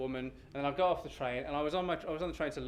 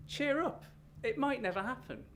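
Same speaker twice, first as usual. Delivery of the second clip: high sing-song cheerful nag; bright, chirpy "cheer up"; chirpy stranger; 11 semitones higher than usual. Retold or imitated. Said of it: "and then she said".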